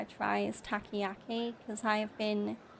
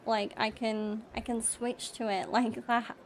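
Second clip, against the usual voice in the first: British speaker's put-on American accent; American accent with a light laugh. Shown as a demonstration. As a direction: slip into American for a demonstration. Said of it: "here's my American voice".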